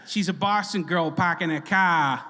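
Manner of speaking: lightly put-on Boston accent; Boston accent with dropped R's; mock Boston accent. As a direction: tease your mom's Boston accent. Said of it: "make fun of our mom's accent".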